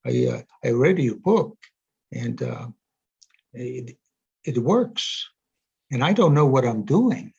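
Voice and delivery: lightly imitated German accent. German psychotherapist phoning the author about his book, lightly imitated German accent. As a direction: quote him with a hint of a German accent. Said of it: "with his German accent".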